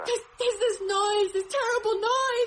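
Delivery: stumbling over words in panic; terrified. Acted. Describes the noise, terrified.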